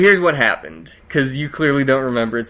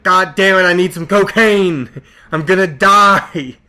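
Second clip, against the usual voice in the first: hammed-up frantic craving, higher-pitched; mock desperation; 4 semitones higher, 4 dB louder than usual. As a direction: play a desperate addict, dragging out the last words. Acting out desperate craving for cocaine.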